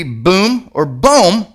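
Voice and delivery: first BOOM like room, second "boom" like home; two mock mispronunciations, oo then long o; wrong guesses at bomb. Shown as a demonstration. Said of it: "you would think it would be".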